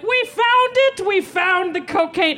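put-on very high, drawn-out kid squeal; hammed-up child announcing a big discovery; triumphant blurting. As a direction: sing out the accusation slowly, sky-high.

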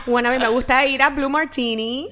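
laughing through the answer; giggling while speaking. Real, not acted.

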